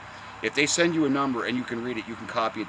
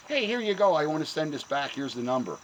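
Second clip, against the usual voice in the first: mock cheerful; 5 semitones higher than usual. Mocking himself at post office.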